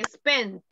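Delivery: "Spent" ending in a clear T; pronunciation of spent. Shown as a demonstration. Teacher correcting student's "spend" to "Spent". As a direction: finish "Spent" with a crisp t. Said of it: "agréguele la T de tomate".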